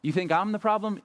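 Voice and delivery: a hammed-up accusing rant; berating. Pastor acting out Moses berating the people, mock scolding. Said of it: "He berates them".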